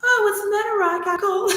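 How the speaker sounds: high, breezy, laughing innocence; sly Aset. Acted. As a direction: play it coy and amused. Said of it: "I'm gonna have to act it out".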